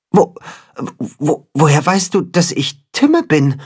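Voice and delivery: put-on stammering, high young hen voice; stuttering. The hen stammers, asking how the cat knows him. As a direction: trip over the first words in disbelief. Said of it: "stottert das Katzenhuhn".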